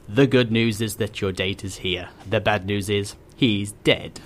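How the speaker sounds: a hint of evil menace, slowing on the punchline; Vincent Price. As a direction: read it like a horror tagline, mildly villainous. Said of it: "a Vincent Price kind of".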